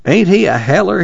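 high, fond exclamation; fondly tickled; affectionate amusement. A narrator's reading. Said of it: "Tom grinned affectionately at him".

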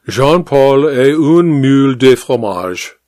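slow, careful French classroom phrase; French recitation. Acted. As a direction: recite it slowly in textbook French. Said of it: "He taught French".

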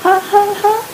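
put-on a scared child trying to laugh on command; small forced laugh. A narrator's reading. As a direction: squeeze out a frightened fake laugh. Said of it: "was very small".

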